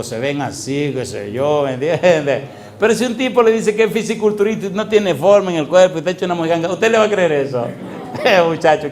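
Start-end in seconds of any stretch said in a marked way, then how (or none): 2.8-7.7 higher and louder, incredulous; fiery preaching. Real, not acted. Mocking challenge, loud. 7.7-8.9 louder, laughing it out. Real, not acted. Laughing after joke.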